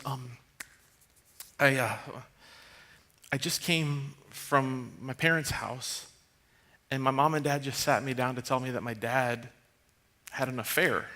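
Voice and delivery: barely holding it together; choked-up confession. Retold or imitated. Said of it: "he goes".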